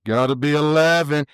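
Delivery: very slow, stretched-out coaching call; Speedy impression. Mentor's voice in his head at the box, slow drawn-out impersonation. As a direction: imitate the mentor's drawn-out holler. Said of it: "I can just hear".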